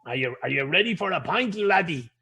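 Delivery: imitating a put-on Irish accent; mock a phoney Irish pub-goer; lightly hammed-up fake Irish brogue; bad fake Irish accent. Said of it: "really, really bad accents".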